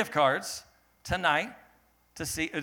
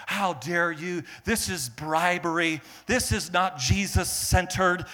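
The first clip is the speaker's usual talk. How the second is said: slow, mock-indignant hate mail; mock outrage; 3 semitones higher, 4 dB louder, slower than usual. Hate mail accusing the church of bribery, mock outrage. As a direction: imitate an offended critic, drawing out each accusation. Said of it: "we had some hate mail come in".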